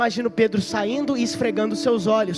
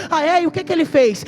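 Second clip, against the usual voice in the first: higher, louder scornful challenge; scoffing executioner; 7 semitones higher, 7 dB louder than usual. Acted. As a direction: demand an answer with contempt.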